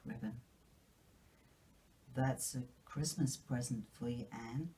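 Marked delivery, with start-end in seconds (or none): 2.1-4.7 shy Matthew. Acted. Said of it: "said Matthew shyly".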